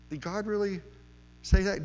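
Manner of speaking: the serpent sneering at God's word, testing Eve; mocking serpent. Serpent tempting Eve, mocking God's word, lightly sneering. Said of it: "He is mocking it".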